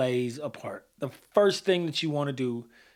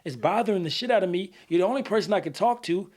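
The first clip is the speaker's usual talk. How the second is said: raised, pressing demand; angry confrontation; 3 semitones higher than usual. Retold or imitated. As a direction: push like a frustrated friend. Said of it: "let's say I don't have good E Q".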